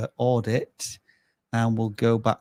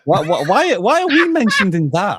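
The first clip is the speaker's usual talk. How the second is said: loud, high, disbelieving why; shocked, rising alarm; surprised; 8 semitones higher, 6 dB louder than usual. Real, not acted. Shocked to be named in clip.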